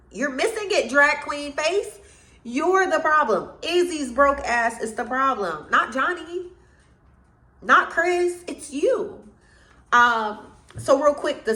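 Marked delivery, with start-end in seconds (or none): 0.1-9.3 sassy callout. Real, not acted.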